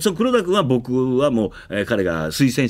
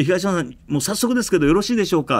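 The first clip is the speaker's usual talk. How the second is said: staff member asking; 7 semitones higher, faster than usual. Retold or imitated. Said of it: "って".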